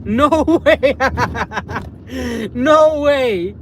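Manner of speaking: high, excited exclamation broken by laughter; real gleeful amazement; laughing disbelief. Real, not acted. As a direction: crack up while exclaiming. Laughing at finding wife.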